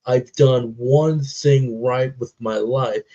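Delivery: a touch of tenderness; tender quote. Retold or imitated. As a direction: ease into it slowly, moved. Quoting the film's tender line.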